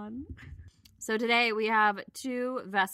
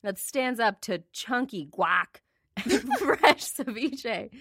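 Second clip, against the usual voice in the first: reading while short of breath; breathless, slow and laughing; slower than usual. Real, not acted. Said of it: "I'm out of breath".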